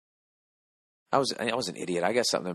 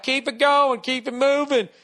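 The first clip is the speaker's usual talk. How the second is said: higher, curt cop voice; cop waving him on; 13 semitones higher than usual. Retold or imitated. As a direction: brush him off like a traffic cop. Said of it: "The guy's like".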